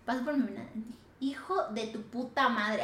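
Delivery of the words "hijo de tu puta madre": slow, drawn-out retold curse; stunned slow-motion swearing under control. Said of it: "en cámara lenta".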